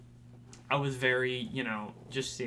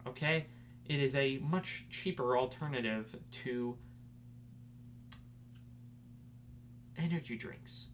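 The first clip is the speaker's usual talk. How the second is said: ad read. Acted. Sponsor ad read.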